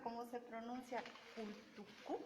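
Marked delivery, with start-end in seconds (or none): 1.3-2.2 "Kultuku" sounded out as a question, softer; tentative pronunciation attempt. Shown as a demonstration. Reader attempts a name nobody can pronounce, tentative "Kultuku". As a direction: try "Kultuku" carefully and unsurely, dropping the volume. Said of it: "de pronunciarlo bien porque".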